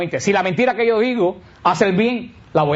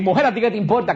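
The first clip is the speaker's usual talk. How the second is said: light, higher, matter-of-fact Mujer; just ask it plainly; even, unbothered tone; neutral question; 4 semitones higher than usual. Shown as a demonstration. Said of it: "no es lo mismo que decir".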